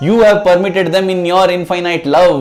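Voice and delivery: high, loud, pleading protest; acted distraught reproach, building to repeated cries; anguished outpouring. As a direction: pour out the hurt and demand an answer. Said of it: "And Ramabrahmam pours out".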